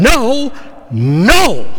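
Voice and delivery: emphatic no. Retold or imitated. Preacher voicing the Greek double negative, insistent and loud. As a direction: slam the door with two noes. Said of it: "it's like saying".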